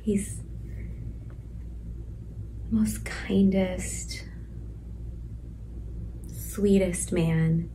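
slow, tender whisper. Real, not acted. Mother whispering about the baby's father. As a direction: linger on each word under your breath.

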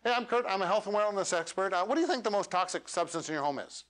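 no break before the question; hurried intro with no setup; rushed, no pause. Shown as a demonstration. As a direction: rattle it off straight into the question. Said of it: "just listen to the difference".

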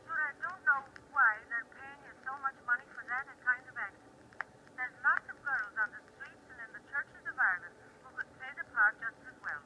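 disgusted grandmother in Irish brogue. Retold or imitated. Disgusted Irish grandmother critiques her granddaughter's acting, in a brogue. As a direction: scold in a lilting Irish brogue. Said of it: "you've turned on the brogue".

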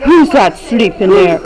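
mild big bear, dropped down low; Papa Bear voice. Acted. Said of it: "what did Papa Bear say?".

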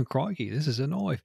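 lightly put-on Australian voice; mock Australian accent. Co-host joking about Australian knives, mock Australian accent. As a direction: toss it off in a playful Aussie accent. Australia jokes, knife film quote.

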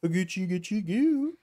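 high cooing, rising to the last syllable; baby talk. Pretend. Player to baby Sean in the crib, playful high baby talk. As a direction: coo at a baby, pitch climbing on goo.

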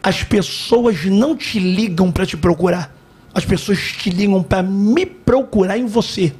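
slow, deliberate divine pronouncement; voice of God. Retold or imitated. God correcting a reluctant missionary in his ear, slow voice of God. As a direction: spell it out slowly, as God speaking. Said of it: "a voz de Deus".

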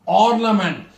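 ornament with weight on OR, falling after; teacher's demo of ornament; stress on first syllable. Shown as a demonstration. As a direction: punch the opening syllable of ornament. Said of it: "meant sound first".

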